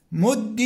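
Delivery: "مد" ending in "i", muddi; kasra ending. Shown as a demonstration. Teacher giving students the imperative, "مد" with kasra. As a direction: say "مد" alone with doubled d and "i". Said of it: "نفس هذه الأحكام تجري في الأمر".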